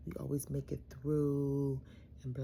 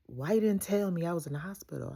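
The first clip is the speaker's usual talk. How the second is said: dad's puzzled question, louder; confused demand; 4 semitones higher, 7 dB louder than usual. Retold or imitated. Dad asking why nobody told him he was at the hospital, loud and puzzled. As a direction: ask it as if wronged.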